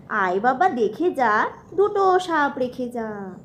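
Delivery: put-on slow sing-song rhyme for a toddler; reciting nursery rhyme. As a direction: recite it slowly, rhythmically.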